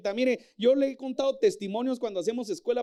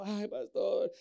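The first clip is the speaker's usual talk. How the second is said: lamenting church member; 3 semitones lower than usual. Retold or imitated. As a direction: sigh it out like a worn-down believer.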